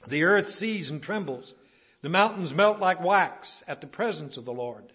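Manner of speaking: emphatic scripture declamation; forceful preaching. Real, not acted. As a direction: proclaim the psalm from the pulpit.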